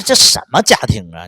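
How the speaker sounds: loud exasperated shout; angry outburst. Retold or imitated. Drunk and scolding her ex, loud outraged shout. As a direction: blurt it out in outrage. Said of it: "他，他，他一顿骂他".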